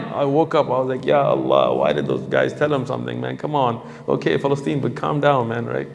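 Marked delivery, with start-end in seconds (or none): 1.0-5.6 annoyed grumble. Retold or imitated. Grumbling at the brothers in the night.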